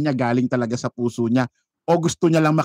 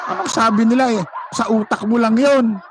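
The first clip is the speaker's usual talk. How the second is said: laughing scoff; 7 semitones higher than usual. Real, not acted. Laughing retort at rally claims.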